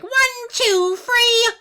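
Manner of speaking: strained, high and loud croak; mummy voice. Retold or imitated. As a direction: squeeze out a strangled mummy groan. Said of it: "got him talking like".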